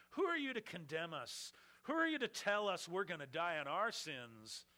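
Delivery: indignant rising challenge, lightly acted; incredulous scorn. Leaders scorning Jesus' claim, lightly acted indignation. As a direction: throw the questions back at him in scorn. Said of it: "incredulous type of scorn".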